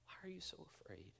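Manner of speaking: quick soft unvoiced whisper; gentle whisper. Jesus asking a fearful friend again, in a soft whisper. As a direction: lean in and breathe the question.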